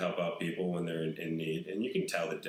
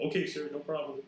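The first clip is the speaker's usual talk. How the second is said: lightly voiced meek, higher polite reply; a hint of a sheepish homeless guy, higher; suddenly polite bum; 7 semitones higher than usual. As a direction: play the bum gone instantly docile. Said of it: "Then he's completely normal".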